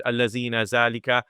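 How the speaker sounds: put-on quick Pakistani-accented recitation of الَّذِينَ, ذَلِكَ. Teacher imitating a student's Pakistani accent. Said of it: "Desi accent or this Pakistani accent".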